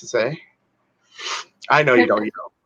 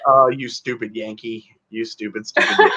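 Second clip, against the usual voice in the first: self-mocking; 3 semitones lower than usual. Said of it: "And I was just like".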